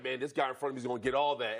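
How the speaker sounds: low, quick psyched-up mutter; inner fired-up voice. Retold or imitated. Lineman psyching himself up before the snap, low and fast. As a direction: grumble it low and fast to yourself. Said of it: "You're like".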